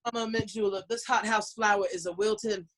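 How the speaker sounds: hammed-up Southern belle accent; Savannah Southern. Entertainer complaining of heat to Portlanders, hammed-up Savannah Southern. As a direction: play up the Southern twang for effect. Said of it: "Savannah Southern".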